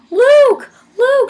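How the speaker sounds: high, loud shriek of a name; imitated fan screaming. Girls screaming as the band member appears, shrieking. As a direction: mimic fans screaming for their idol. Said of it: "girls started screaming".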